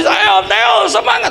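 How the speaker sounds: loud, high courtside cheer; cheering shout. Retold or imitated. A father in the stands cheers his son's team, shouting loudly. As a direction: cheer your son on at full voice. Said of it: "suaraku sampai habis".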